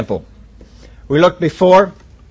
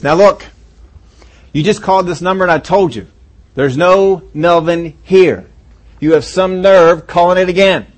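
raised, higher angry scolding of a repeat caller; angry man on the phone; 4 semitones higher, 3 dB louder than usual. Acted. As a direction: snap at the caller, pitched up and louder. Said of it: "much more angry".

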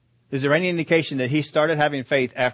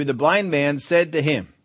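slow reading leaning on "blind"; stress on blind; 3 dB louder, slower than usual. Shown as a demonstration. Preacher reading scripture to the congregation, "blind" stressed. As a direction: draw out "blind man" with weight. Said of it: "we're emphasizing the guy's blind".

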